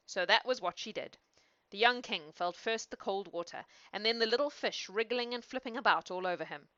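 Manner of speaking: measured fairy-tale reading; storyteller's narration; story narration. A narrator's reading. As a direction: read it aloud as a bedtime tale. Reads a fairy tale aloud.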